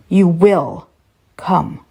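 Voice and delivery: "You will" punched, "will" hit hard; mild yell on "will". Acted. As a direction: lean on "will" like a threat. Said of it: "She yelled that word, "will".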